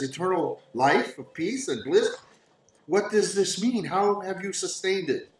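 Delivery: high, questioning wonder; wondering young woman. Acted. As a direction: ask in a lifted, searching woman's voice. Game master voices Irina questioning Sergei.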